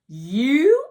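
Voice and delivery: slow, loud, high astonished question; stunned she knows it; shocked boy asking the girl; gawking disbelief. Acted. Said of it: "Harlan gawked".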